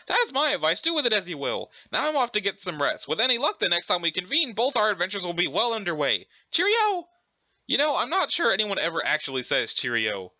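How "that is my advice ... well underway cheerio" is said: jaunty British sign-off; Urania Umbra. Acted. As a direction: sign off politely in a put-on British lilt. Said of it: "pretending to be British".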